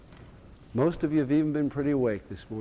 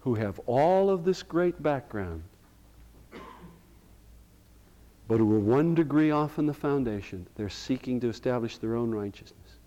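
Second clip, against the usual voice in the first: Paul's mild lament. Retold or imitated. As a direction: let the grief of Paul show, understated. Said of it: "Do you hear him saying".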